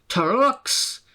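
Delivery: high, outraged rising Trucks; indignant engine. A narrator's reading. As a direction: Sir Handel can't believe it. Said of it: "snorted Sir Handel".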